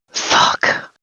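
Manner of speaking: whispered gruff Witcher curse; Geralt voice. Retold or imitated. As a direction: mutter it like a weary monster hunter. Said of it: "In the Witcher voice".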